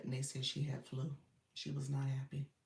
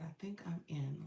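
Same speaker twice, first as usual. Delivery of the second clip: soft whispered read; whispering; 5 dB quieter than usual. Retold or imitated. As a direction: whisper the comment. Reading a viewer's comment aloud.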